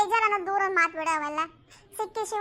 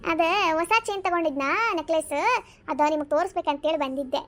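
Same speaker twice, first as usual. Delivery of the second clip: normal talking voice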